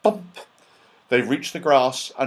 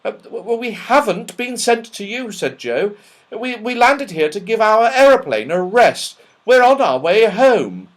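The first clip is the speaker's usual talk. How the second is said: nervous stammer; 9 semitones higher, 5 dB louder than usual. Acted. Joe stammering to Dame Snap.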